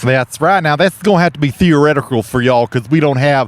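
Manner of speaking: hammy folksy TV host; Southern cooking show hosts. Pretend. Two hosts pitch a turkey to viewers, folksy Southern.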